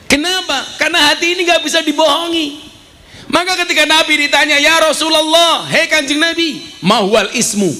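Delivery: high-pitched, forceful preacher's delivery; preaching at full force. Acted. (berdakwah lantang bernada tinggi)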